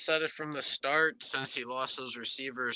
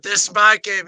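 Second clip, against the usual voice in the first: loud, higher mock shout of "my game"; hammed-up victorious shout; mock boast; 6 semitones higher, 12 dB louder than usual. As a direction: bellow it like a cocky star player. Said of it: "He said".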